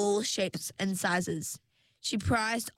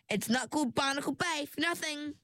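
composed; 7 semitones higher, faster than usual. A narrator's reading. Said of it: "said Chignon in a composed voice".

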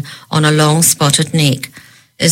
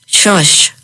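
hushing; 3 semitones higher than usual. Acted. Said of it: "Mister Thrain said".

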